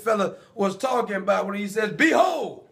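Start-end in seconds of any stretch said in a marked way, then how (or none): 1.9-2.7 proclaiming shout. Acted. John the Baptist proclaiming.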